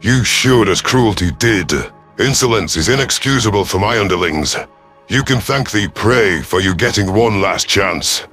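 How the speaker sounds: menacing threat. Acted. Commander gives underling one last chance, menacing. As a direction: bear down on each word.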